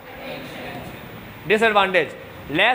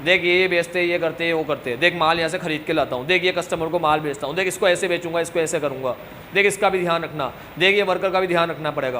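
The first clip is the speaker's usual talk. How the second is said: lightly voiced father, lower and even; father instructing child; 4 semitones lower than usual. Father showing his child the shop's work, lightly acted instructing. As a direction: run through the chores in a low, matter-of-fact fatherly voice. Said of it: "उसको अपने जाते क्या बोलते हैं".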